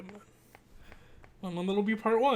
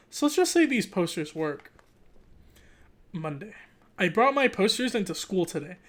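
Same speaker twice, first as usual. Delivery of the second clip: animated read-aloud narration; story narration; 3 semitones higher, 6 dB louder than usual. Acted. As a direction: read it like a kid's diary, lively. Reads the book aloud.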